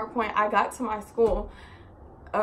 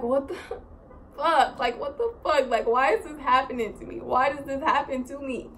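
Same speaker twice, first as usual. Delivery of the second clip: higher-pitched, half-laughing mock despair; replaying a woe-is-me moment; retold exasperation; 4 semitones higher than usual. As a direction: act out an exasperated plea. Reenacts upset at staring stranger.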